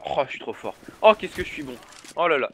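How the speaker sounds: hammed-up self-praise, tongue in cheek; mock bragging. Caster jokingly praising himself to the chat, mock boastful. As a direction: playfully boast about how good you are. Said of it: "je vais arrêter de me faire enfler les chevilles".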